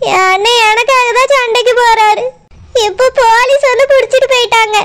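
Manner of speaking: crying while blaming herself; tearful. Acted. Sister-in-law weeping over her jailed brother, tearful. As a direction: choke back sobs as you talk. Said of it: "சித்தி, அழாதுங்க சித்தி".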